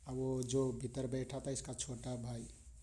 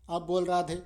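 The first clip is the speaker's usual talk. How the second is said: louder, forcing command; forceful demand; 3 semitones higher, 6 dB louder than usual. Acted. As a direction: bark the order while twisting. Guru twisting arm, demanding.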